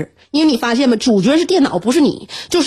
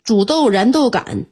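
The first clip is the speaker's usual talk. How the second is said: poem recital; 3 semitones higher, slower than usual. Shown as a demonstration. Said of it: "妈给你多少改一下".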